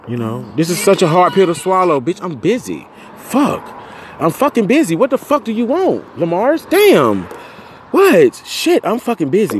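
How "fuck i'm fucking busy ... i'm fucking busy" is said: high, loud furious snapping; angry outburst. Real, not acted. Irritated podcaster yelling at whoever interrupted him, furious. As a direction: bite the caller's head off.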